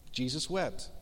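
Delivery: soft and grave, the two words dropped low; hushed scripture reading. Acted. Pastor reading Jesus wept to the congregation, hushed. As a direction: let the verse land quietly, with reverence. Reading the shortest verse aloud.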